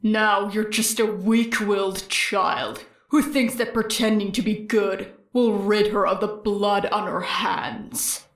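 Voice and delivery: low, slowed taunt, fading at the end; a low sneer that trails away; lightly voiced villain. Stain taunting in her memory.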